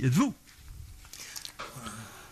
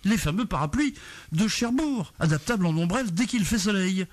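declaimed radio intro. Acted. Host declaims a comic tribute to Cherbourg for his guests, declaimed intro. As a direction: declaim it like a showman, building to a big finish.

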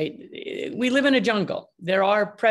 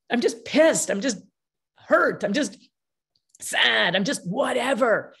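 venting; 4 semitones higher than usual. Acted. Acts upset person venting feelings in bursts.

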